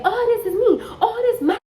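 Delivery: high, loud mocking rant through laughter; mock shrill tirade, laughing; mocking her tantrum. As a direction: ham up her bragging, cackling. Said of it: "she just going off".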